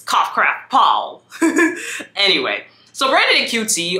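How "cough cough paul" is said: whispered aside. Pretend.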